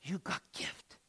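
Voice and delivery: broken Slovak English, rising to a call; imitating an old Slovak man urging him on; Slovak accent. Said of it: "That's how he would say it".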